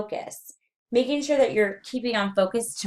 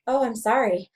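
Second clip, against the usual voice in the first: higher-pitched quick apology; varied range; 5 semitones higher, 3 dB louder than usual. Shown as a demonstration. Lecturer repeats apology to show range, higher pitch. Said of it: "then there's range".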